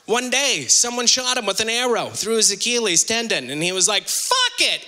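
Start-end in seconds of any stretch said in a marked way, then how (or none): 4.1-4.8 1 resigned giving up. Acted. Achilles giving up, acted quote.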